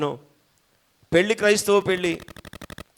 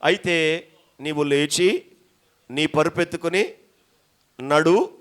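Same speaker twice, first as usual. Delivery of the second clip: gentle command; 5 dB louder, much slower than usual. Retold or imitated. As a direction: tell him kindly to get up and walk. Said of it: "ప్రభు అన్నాడు".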